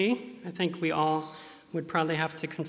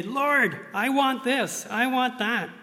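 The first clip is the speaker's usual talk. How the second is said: mock bold asking; 7 semitones higher, 4 dB louder, slower than usual. Okay to be straight and say.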